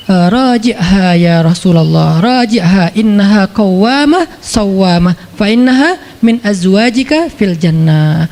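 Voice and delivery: slow, solemn Arabic recitation; recited Arabic. Acted. Jibril delivering Allah's message, slow solemn recitation. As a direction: recite it slowly and reverently.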